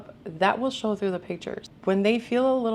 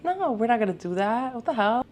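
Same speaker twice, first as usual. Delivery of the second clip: incredulous refusal; 4 semitones higher than usual. Real, not acted. Rejecting AI fix.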